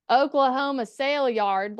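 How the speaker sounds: lightly disguise your voice for an ad read; disguised ad voice. Retold or imitated. Woman voicing radio commercials, lightly disguised voice. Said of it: "I tried to disguise my voice".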